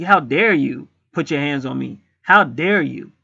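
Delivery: slow, drawn-out indignant protest; replaying mild outrage, slowly; retold indignation. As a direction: stretch it out like an affronted challenge. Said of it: "I got madder when he said that".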